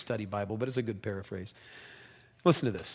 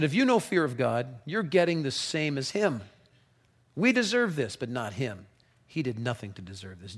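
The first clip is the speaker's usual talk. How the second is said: rebuke. Acted. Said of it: "made him shut up".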